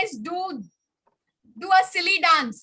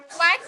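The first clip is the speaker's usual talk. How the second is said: duck quack; 4 dB louder than usual. Shown as a demonstration. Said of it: "Quack like a duck".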